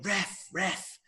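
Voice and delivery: high-pitched mock yell at the ref; imitating a manager yelling at the referee; mock belting. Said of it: "belting at him".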